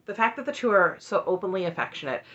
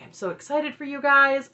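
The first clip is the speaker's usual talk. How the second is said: higher, louder bubbly gush; gushing excitement; 7 semitones higher, 4 dB louder than usual. Retold or imitated. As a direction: gush over the couple. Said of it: "So Aspen's like".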